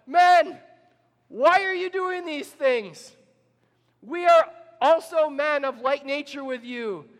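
high, loud plea, slow at first; crying out. A narrator's reading. Paul and Barnabas cry out to the worshipping crowd, high and loud. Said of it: "crying out".

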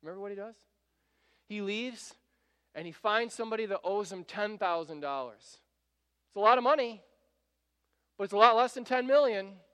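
normal talking voice

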